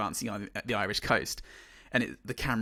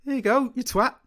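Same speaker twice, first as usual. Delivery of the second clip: much higher gleeful mock troll snarl; voicing the troll; 12 semitones higher, 6 dB louder than usual. Friend voicing the troll as it throws a girl, mock gleeful. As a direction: toss the line out like a brute flinging someone.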